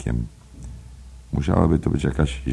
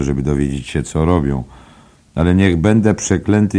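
a lightly raised, confiding pub gossip; gossiping barfly; 5 semitones higher, 6 dB louder than usual. Acted. Nosey Flynn gossiping to Byrne, lightly raised pub voice. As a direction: lean in and spread the rumour. Flynn tells the clock story.

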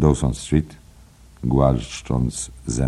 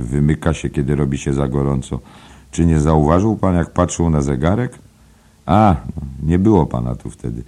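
a lightly raised, confiding pub gossip; gossiping barfly; 4 semitones higher, 4 dB louder than usual. Acted. Nosey Flynn gossiping to Byrne, lightly raised pub voice. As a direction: lean in and spread the rumour. Flynn explains Bloom's habits.

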